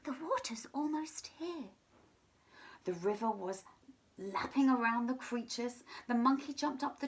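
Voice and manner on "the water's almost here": squeaky giraffe. Acted. Giraffe squeaking to the animals to climb on. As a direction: squeak kindly but high. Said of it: "in his high voice".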